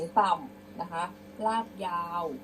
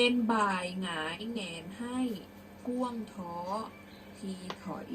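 measured verse with pauses; prose-style recitation; 3 dB quieter than usual. Shown as a demonstration. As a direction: read out phrase by phrase, softening at the end. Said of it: "เดี๋ยวครูจะอ่านเป็นร้อยแก้ว".

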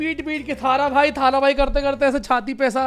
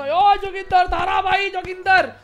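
Joginder catchphrase; 4 semitones higher, slower than usual. Retold or imitated. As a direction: call it out like the influencer's signature intro.

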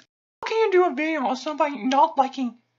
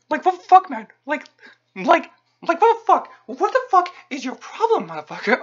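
angry outburst. Acted. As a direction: demand it like you can't believe them. Ranting at a commenter.

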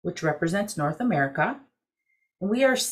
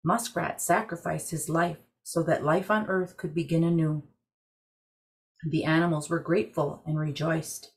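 calm storyteller reading a legend; story narration. A narrator's reading. Story narration over music.

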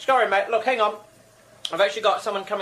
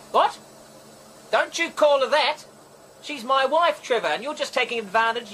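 indignant; 3 semitones higher than usual. Acted. Husband defends his wife to Trevor on the phone, indignant. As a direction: stand up for your wife.

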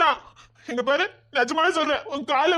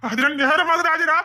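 calling out; 3 semitones higher, slower than usual. Acted. Calling out for daughter.

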